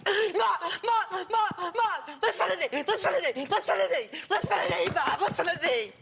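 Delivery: imitating a badgering son, insistent repeats; mock in-your-face nagging, words fired over and over. Mother shows host how son confronts her, mock in-your-face badgering. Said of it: "he's like this in your face".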